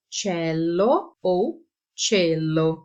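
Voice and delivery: "cello ou cielo" said slowly, contrasting the E; regional E variants. Shown as a demonstration. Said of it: "A mesma coisa com a palavra". (comparar o E de "cello" e "cielo")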